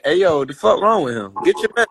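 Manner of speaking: put-on irritated retort with a Southern country accent; retold annoyance in a country accent; country accent slipping out. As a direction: let a country accent slip into an annoyed comeback. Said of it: "Hey, I heard the accent".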